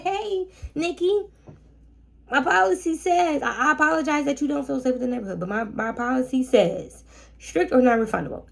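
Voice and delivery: a host brushing off a guest, sugary firm. Retold or imitated. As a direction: sweetly restate the policy, voice up high. Sweetly firm reply to the guest.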